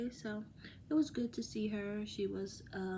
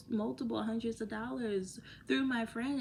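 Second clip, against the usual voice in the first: normal talking voice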